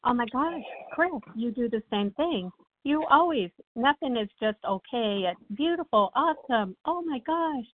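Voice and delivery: high, gushing self-parody; mock gushing. Woman laughing at herself in a dream, mock gushing high. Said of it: "I'm laughing because I'm going".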